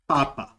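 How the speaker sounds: papa, both syllables light; papa said once, short and clean; Greek word papa. Shown as a demonstration. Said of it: "we have, for example".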